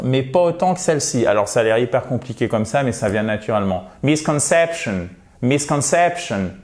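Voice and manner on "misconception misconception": misconception with audible MIS and strongest CEP; secondary stress. Shown as a demonstration. Teacher showing the secondary accent, two-stress delivery. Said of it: "un peu plus accentuée que les autres".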